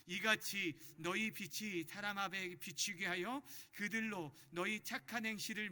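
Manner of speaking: slow, loud, measured Bible recitation; deliberate group-reading delivery; leading scripture reading. Acted. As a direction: read it out steadily for a congregation to follow. Leads congregational scripture reading.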